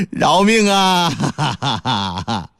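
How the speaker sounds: slow pleading cry for mercy; a scared husband begging on his knees; Xu Xuan begging. Acted. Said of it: "给这白娘子跪下了". (跪地求饶的许宣)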